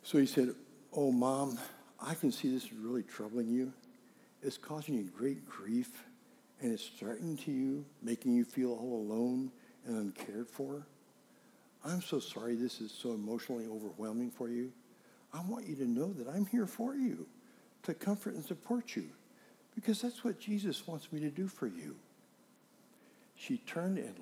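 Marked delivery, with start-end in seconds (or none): 0.9-14.7 soft, gentle retold sympathy; coached comforting. Coached son consoles his upset mother, soft comforting. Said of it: "trying to teach them how to speak". 15.3-22.0 soft, slightly lifted reassuring voice; coached reassurance. Retold or imitated. Son tells his mother he is there, soft reassurance. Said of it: "I coached him to say".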